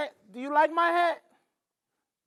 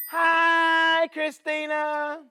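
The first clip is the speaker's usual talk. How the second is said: put-on overbright kids party host; 4 semitones higher, much slower than usual. Teacher greets child cheerily.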